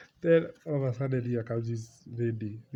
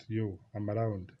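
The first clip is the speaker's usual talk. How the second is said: hyping him up; 2 semitones higher, 8 dB louder, slower than usual. Retold or imitated. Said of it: "trying to show that".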